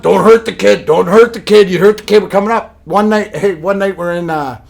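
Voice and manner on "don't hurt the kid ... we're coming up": protective tough guys. Retold or imitated. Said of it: "wolf pack circle around".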